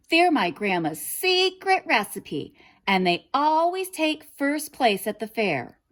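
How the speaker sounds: put-on high, eager little girl's voice; proud girl. A narrator's reading. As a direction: brag about grandma's muffins in a high girl's voice. Girl boasts to wolf.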